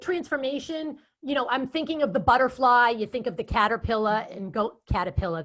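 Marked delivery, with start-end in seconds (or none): 4.9-5.4 Boston accent. Shown as a demonstration. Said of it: "there's my Boston accent".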